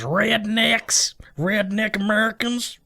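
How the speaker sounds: lightly put-on redneck American; mock redneck. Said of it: "I think of farmers as".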